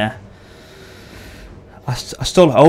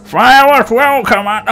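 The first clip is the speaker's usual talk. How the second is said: drawn-out, high mock military order; hammed-up film commander, pitched up and slow; Star Wars officer; 9 semitones higher, 4 dB louder than usual. Gamer quoting Star Wars at his rival, hammed-up order. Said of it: "Star Wars, yeah".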